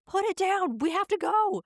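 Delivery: high, urgent mock shout; imitating yelling mom. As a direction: order them out like a frantic mom. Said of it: "and my mom's like".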